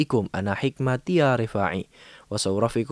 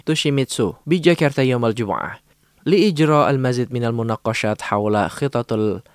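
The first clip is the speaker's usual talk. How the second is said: news read; 3 dB louder than usual. Acted. Reads news bulletin.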